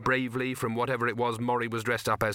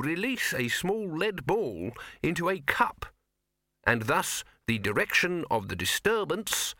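slow, raised, pedantic reading; bursar reading aloud; 5 semitones higher than usual. Acted. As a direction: read it like a fussy wizard scholar. Bursar reads a scholarly text.

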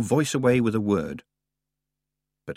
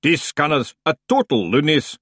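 a different muffled voice from below; a second creature pipes up; new hidden voice; 6 semitones higher, 4 dB louder than usual. A narrator's reading. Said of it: "said a new voice".

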